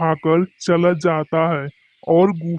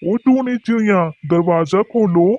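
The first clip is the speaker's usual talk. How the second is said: calling out; 2 semitones higher than usual. Acted. Crow calling at the door.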